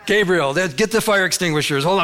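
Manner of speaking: put-on Southern-accented God. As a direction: play God with a hint of a folksy Southern accent. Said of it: "God has a southern voice".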